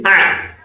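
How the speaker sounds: "Ah" squeezed from the throat, as Arabic Ain; Ain with fatha. Shown as a demonstration. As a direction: draw out "Ah" with the Ain throat consonant. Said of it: "when you add Fatiha to Ain".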